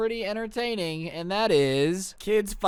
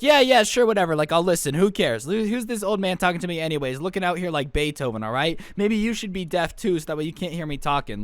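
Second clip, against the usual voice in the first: mouthing off. Retold or imitated. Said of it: "Harry just starts mouthing off".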